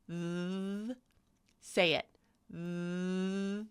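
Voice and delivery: long buzzing, held "th"; voiced TH. Shown as a demonstration. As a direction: hold "th" as a steady voiced hum. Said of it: "voiced and unvoiced with the th".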